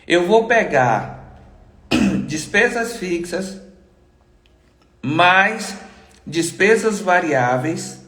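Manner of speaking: speaking with an inflamed throat; strained voice from a sore throat. Real, not acted. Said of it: "eu tô com a garganta inflamada".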